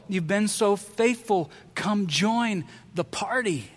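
slow, gentle coaxing; Jesus gently inviting his critics to the party; tender invitation. Acted. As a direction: warmly welcome them in, unhurried. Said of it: "And he loves them".

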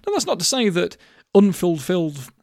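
slurring through loose teeth; words mangled by loose dentures. Real, not acted. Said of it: "excuse me, put my teeth in".

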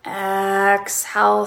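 calm, drawn-out breath counts; slow breath counting. Shown as a demonstration. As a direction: count each breath slowly. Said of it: "So counting in this way".

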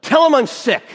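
high, very loud mock yell; hammed-up full-volume outburst; shouted punchline. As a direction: holler it like an indignant drunk husband. Drunk husband's shouted punchline.

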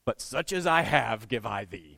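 put-on slow, old-fashioned scripture recital; Sunday school King James voice. Pastor quoting Peter the Sunday school way, slow and solemn. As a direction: intone it like the old Bible verse. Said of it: "it sounded like this".

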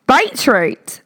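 Beetroot! with a lifted exclaiming pitch; exclaimed beetroot. Shown as a demonstration. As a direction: call out Beetroot! brightly.

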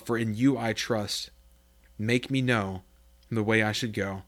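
earnest Bible reading from the pulpit; scripture reading. Acted. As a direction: read the prayer aloud with reverence. Reads Psalm 143 aloud.

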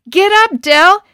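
loud, high urgent yell. Acted. Boys yell at Del to flee the bull, loud yell. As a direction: shout to get him out of there. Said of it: "the other boys yelled".

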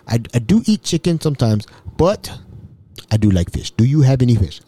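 measured, lightly imitated African accent; touch of a formal African voice. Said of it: "Mbutu was an African".

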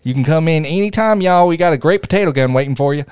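put-on Tennessee twang; Southern accent. Joking about what Tennesseans do, in a Southern accent. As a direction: play the folksy Southern host. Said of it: "I really like using a Southern accent".

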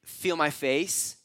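drawn out very slowly; slow hypothetical. Shown as a demonstration. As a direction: linger on each word as a question. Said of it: "couldn't he have said".

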